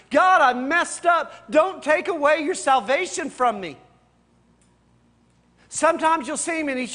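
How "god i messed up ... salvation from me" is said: begging for mercy. Retold or imitated. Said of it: "begging God for mercy".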